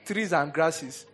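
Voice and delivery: mocking preaching. Pastor mocking his younger self's talk of greenery, scoffing. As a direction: ridicule the idea then let it drop.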